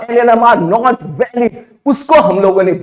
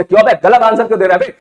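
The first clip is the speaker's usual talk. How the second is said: mock scolding; faster than usual. Teacher confronting the student in the lift, mock scolding. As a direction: snap at the student like an annoyed elder.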